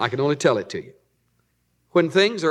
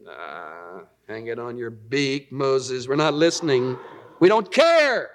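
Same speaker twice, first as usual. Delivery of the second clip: a touch of scornful crowd jeering Moses; mocking crowd; 4 semitones lower, slower than usual. People brushing off Moses, lightly mocking. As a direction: toss it off like a sneering mob.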